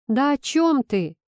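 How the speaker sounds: losing patience, raise the voice. A narrator's reading. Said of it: "не выдержав, повысил голос".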